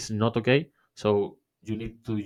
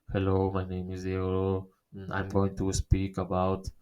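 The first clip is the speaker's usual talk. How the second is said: same tone all through, no ups or downs; monotone demo; 2 semitones lower, 3 dB quieter than usual. Shown as a demonstration. Podcast teacher showing a boring intro, in one tone. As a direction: drone the intro on one tone like a bored speaker. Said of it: "If you speak always in the same tone".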